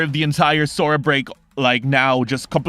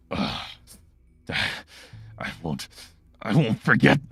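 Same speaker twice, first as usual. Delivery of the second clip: wounded villain; 2 semitones lower than usual. Acted. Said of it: "and he goes".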